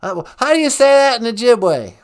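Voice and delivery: George W. Bush impression. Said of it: "George W. Bush".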